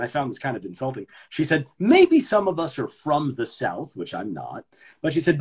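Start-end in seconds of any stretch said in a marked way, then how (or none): 1.8-3.9 condescending director. Retold or imitated. Quotes director talking down to cast.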